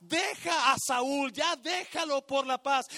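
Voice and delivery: shouted exhortation in short bursts; God's urgent command. Acted. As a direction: call out as God, insistent. God pleads with Samuel, shouted.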